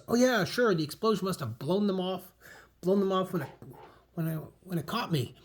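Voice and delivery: nervous high excuse; flustered excuse, high. Acted.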